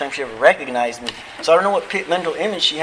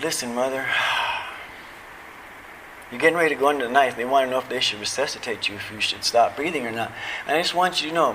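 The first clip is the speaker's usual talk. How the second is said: tender goodbye; 5 dB quieter than usual. Retold or imitated. Tells dying mother goodbye.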